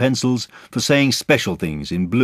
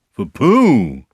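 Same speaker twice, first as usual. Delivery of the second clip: higher, louder disbelieving question; taken aback; 6 semitones higher, 9 dB louder than usual. A narrator's reading. Eeyore hearing the gift is Pooh's, taken aback. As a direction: echo it in dismay. Eeyore learns present isn't his.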